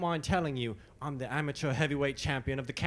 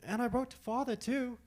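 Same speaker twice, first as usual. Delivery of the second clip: much higher, eager protest; emphatic insistence; 11 semitones higher than usual. Acted. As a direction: insist earnestly he did write. Insisting he wrote.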